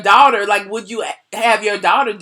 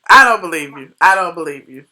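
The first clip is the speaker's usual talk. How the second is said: louder, insistent I don't believe you; firm, louder repeat of disbelief; emphatic disbelief; 5 semitones lower, 6 dB louder than usual. Real, not acted. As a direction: press it hard, you're not buying it. Host doubting caller's age.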